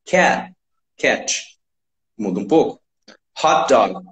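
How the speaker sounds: usual speaking voice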